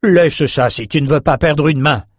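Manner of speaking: urgent sharp warning call; cry out. Acted. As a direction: shout a warning across the deck. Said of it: "Nathan s'écria".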